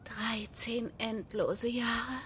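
slow, dry whispered sigh; weary whisper. Acted. Lorne answers Noel's question with a weary, slow whisper. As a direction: breathe it out, long-suffering.

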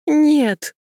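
high, loud desperate no; a piercing cry of refusal; scream. Acted. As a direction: scream it, struggling free. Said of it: "закричала она".

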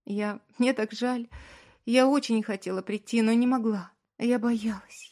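high, tearful rushed confession; wife weeping, begging forgiveness; sobbing feverishly. A narrator's reading. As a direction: sob out the apology. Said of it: "разразилась слезами лихорадочно".

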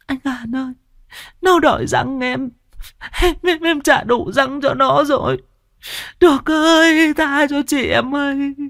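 put-on high wailing girl's voice, rising to a cry; begging madwoman. A narrator's reading. Sao begs her dead brother Được to spare her, wailing high. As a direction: beg for mercy, high and desperate. Mad girl begging ghost.

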